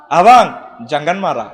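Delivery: Malay phrase. Shown as a demonstration. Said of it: "Malaysia".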